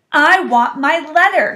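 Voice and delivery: loud, high, slow demand; boy's insistent shout. A narrator's reading. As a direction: shout it word by word. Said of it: "he shouted".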